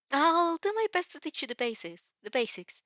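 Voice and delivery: put-on bright, helpful young hero showing off; Izuku voice. Izuku reassuring her.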